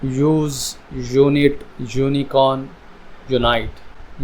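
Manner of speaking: spaced words, each starting like यूज़ with a y-glide; U as "you". Shown as a demonstration. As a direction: model an opening "yoo" in यूज़, यूनिट, यूनिकॉर्न. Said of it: "यहाँ पर यू sound निकलती है". (यूज़, यूनाइट में यू की साफ़ आवाज़)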